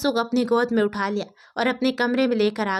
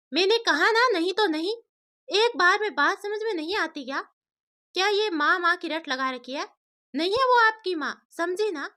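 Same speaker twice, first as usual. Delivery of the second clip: raised scolding voice, pitch up; angry father; 6 semitones higher than usual. A narrator's reading. Father loses his temper at his daughter. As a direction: scold sharply, losing patience. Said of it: "आनंद को गुस्सा आ गया और वो बोला".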